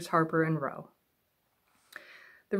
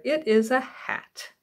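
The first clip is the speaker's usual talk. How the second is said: little bear pleased; 5 semitones higher, slower than usual. Acted. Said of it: "said Little Bear".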